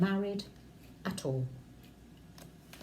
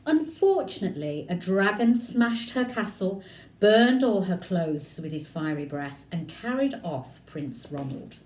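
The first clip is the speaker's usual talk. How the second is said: lively read-aloud storytelling; story narration. A narrator's reading. Teacher reading a picture book to children, lively narration. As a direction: tell it to the class with energy.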